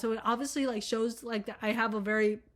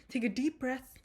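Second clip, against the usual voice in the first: whispered breathing cue; 5 dB quieter, slower than usual. Shown as a demonstration. Guiding viewers to breathe.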